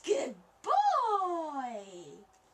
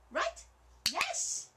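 squeaky praising a dog; 10 semitones higher than usual. Real, not acted.

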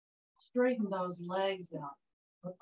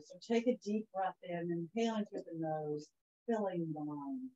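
guided relaxation voice. Acted. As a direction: ease them into calm breathing. Guides breathing in corpse pose.

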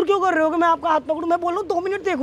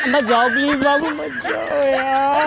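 dragged-out, wailing plea; mock-tearful pleading; much slower than usual. Boy begging a girl not to leave, tearful pleading. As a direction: beg with a drawn-out fake sob. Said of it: "रो लो अच्छे से".

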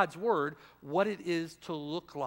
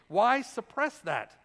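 "Why" pushed, slower and louder; emphatic repeat; 5 semitones higher, 5 dB louder, slower than usual. Acted. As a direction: drive the question home, slowly. Preacher repeats rhetorical question louder.

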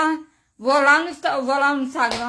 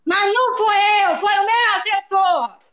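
high-pitched, indignant protest; real angry yelling; 6 semitones higher, 3 dB louder than usual. Real, not acted. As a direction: shout your denial at the accuser. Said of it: "Por que que você tá gritando". (gritando indignada, voz aguda)

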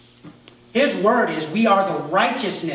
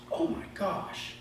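shocked gasp; 3 semitones higher, 12 dB quieter than usual. Retold or imitated. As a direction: gasp then slow whispered dismay. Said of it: "and I went".

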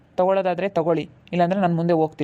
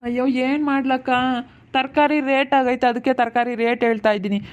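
helpless protest; 3 semitones higher than usual. Acted. Seller defending vegetable prices to customers, helpless protest. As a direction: draw it out in helpless complaint.

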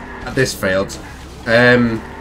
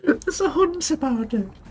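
laughing; 6 dB quieter than usual. Real, not acted. Laughing repeat.

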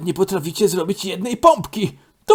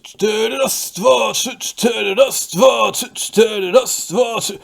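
counting reps out loud; count shout; 4 dB louder, slower than usual. Acted. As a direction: bark the count like a coach. Sportowiec liczy ćwiczenia, krzyczy. (głośne odliczanie jak trener)

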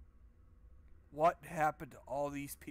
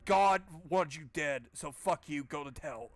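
mock epitaph; 5 dB louder than usual. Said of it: "Just something better than".

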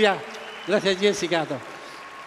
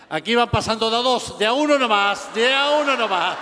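calling out; 3 dB louder than usual. Acted. San Pedro calls to the queue.

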